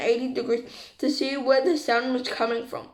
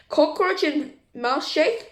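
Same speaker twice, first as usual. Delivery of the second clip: protesting; 2 semitones higher, slower than usual. Acted. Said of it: "protested the girl".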